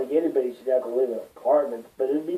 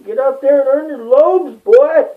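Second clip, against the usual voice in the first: high, loud barked order; stern Ferengi elder; 10 semitones higher, 8 dB louder than usual. Pretend. A Ferengi elder scolding a failed son, a high, loud bark. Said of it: "I feel like I'm a freaking failed Ferengi".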